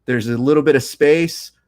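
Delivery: live grappling commentary with stretched, punched words; play-by-play. Shown as a demonstration. Commentator calls the last thirty seconds, play-by-play delivery. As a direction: call the match like a sports commentator. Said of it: "let me go and give you a, a slight play-by-play now".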